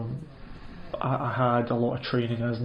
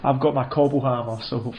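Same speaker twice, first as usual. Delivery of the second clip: mock threat; 5 dB louder than usual. Threatening a client with hammer.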